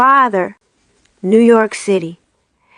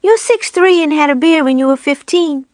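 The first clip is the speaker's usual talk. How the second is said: higher matter-of-fact snowman; 7 semitones higher than usual. A narrator's reading. Jim telling Buddy the obvious, higher snowman voice. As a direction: state it plainly as a silly snowman.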